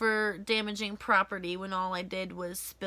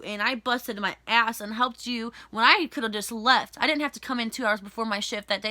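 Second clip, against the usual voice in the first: angry rant. Retold or imitated. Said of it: "I was like".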